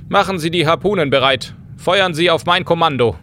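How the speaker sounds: a hint of a ship captain; stern captain. Captain addresses O'Reilly.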